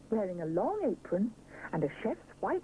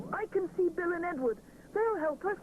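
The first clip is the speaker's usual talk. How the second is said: put-on higher, bright childlike character voice; a young bear calling out hopefully; excited young bear voice; 10 semitones higher than usual.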